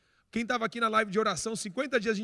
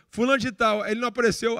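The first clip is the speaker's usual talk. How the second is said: raised voice, like calling a name; mildly louder mock announcement; imitated call-out; 3 semitones higher, 4 dB louder than usual. Sound man calling out a patient's name to the waiting room, mildly shouted. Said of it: "do som gritou assim".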